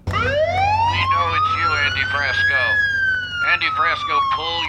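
very high slow squeaky voice; nervous falsetto plea; nervous eager uptalk. Pretend. Rookie cop, very high voice.

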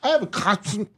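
high, odd goofy voice; silly voice. Pretend. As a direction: play it like a weird complaint. Silly made-up ailment.

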